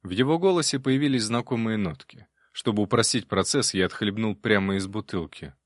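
ordinary delivery

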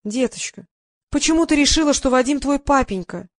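syrupy mock tenderness; falsely sweet. A narrator's reading. Press secretary sweetly patronises the girl, falsely sweet. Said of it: "больно ласково осведомилась Лиза".

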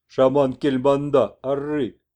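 slow, proud declaration; shaman messenger. Acted. Messenger proudly tells the old man the shaman walks, slow. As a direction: proclaim it.

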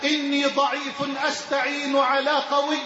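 measured devotional recitation; poem recitation. Acted. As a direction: recite it as a humble prayer.

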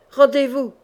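loud command to surrender; shouted surrender demand; shouted together. Acted. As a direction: bark the order at him. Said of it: "crièrent-ils ensemble".

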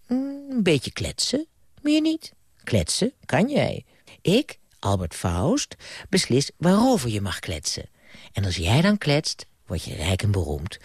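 storyteller voice, lively with character voices; bedtime story reading. Acted. Grandpa reading to a child at bedtime, gentle storytelling. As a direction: read it like grandpa at the bedside.

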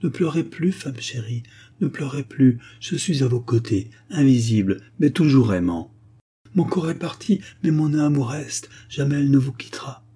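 appel plus haut, suppliant; cri léger. Acted. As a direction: crier pour être entendu de l'au-delà. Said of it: "Je voulais leur crier". (l'âme invisible supplie sa mère et sa fiancée, criant)

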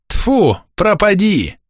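put-on very high old woman's curse; spitting contempt. A narrator's reading. Old woman rejects Pavel's advice, spitting contempt. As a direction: spit it out in a high, scornful voice. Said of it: "плюнула бабка Матрёна".

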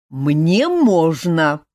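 very slow, stressed «можно»; stubborn insistence. A narrator's reading. Cousin insists on his own right to drink, slow stubborn «можно». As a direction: lean hard on «можно», insisting. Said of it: "не унимался Элмар".

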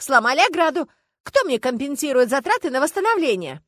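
выше и громче, с негодованием; требуй справедливости; возмущённая жалоба. Acted. Дама жалуется возмущённо. (возмущённая жалоба)

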